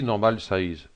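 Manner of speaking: English words with a French accent. Real, not acted. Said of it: "Excusez-moi de mon anglais". (anglais avec l'accent français)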